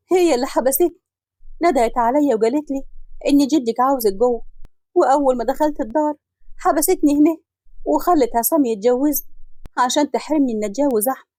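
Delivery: tearful telling. Acted. Daughter to her family, mildly tearful. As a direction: tell the family through mild tears. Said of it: "وهي بتعيط".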